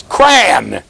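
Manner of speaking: "Crayon" as one syllable, "cran"; Western New York crayon. Shown as a demonstration. Teacher correcting the class, emphatic one-syllable "Crayon". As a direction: say "Crayon" with no y sound. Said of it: "There's no y in there".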